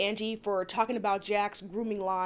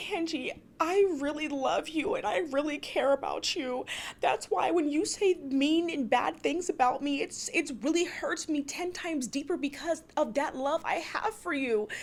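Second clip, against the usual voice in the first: imitating a teary confession in a higher voice; lightly mocking, higher tearful voice; mock tearful plea; 5 semitones higher than usual. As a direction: plead with put-on hurt, pitched up. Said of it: "she starts to, like, tear up, cry".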